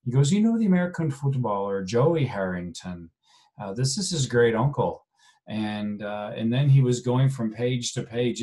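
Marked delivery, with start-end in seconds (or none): 0.3-5.1 put-on light amateur Irish accent, chatty; understated Irish accent impression. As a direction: imitate the proud old Irishman, lightly. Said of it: "my poor attempt at an Irish accent".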